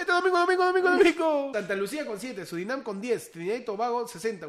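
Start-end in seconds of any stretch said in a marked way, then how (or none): 0.0-1.5 monster truck ad. Pretend. Monster truck style promo.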